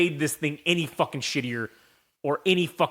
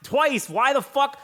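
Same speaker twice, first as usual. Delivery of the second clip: retold frustration; 10 semitones higher than usual. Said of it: "I was like".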